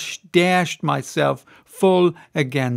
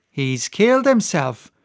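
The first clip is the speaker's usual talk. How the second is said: cried; 3 semitones higher than usual. Acted. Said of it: "she cried".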